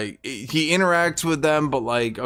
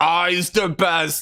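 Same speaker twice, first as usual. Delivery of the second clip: put-on orc warlord shout, higher pitch; 5 semitones higher than usual. Retelling a battle, acting out Grimgor shouting.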